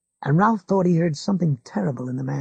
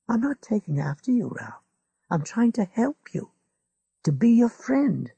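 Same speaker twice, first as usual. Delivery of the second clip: put-on lightly raised older neighbour, needling; a hint of a smug old man lecturing; McGovern's voice; 7 semitones higher than usual. A narrator's reading. Old neighbour lectures Ralph, a touch smug.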